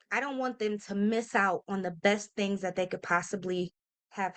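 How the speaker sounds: holding back real tears; getting emotional. Real, not acted. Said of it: "ooh, let me not get emotional".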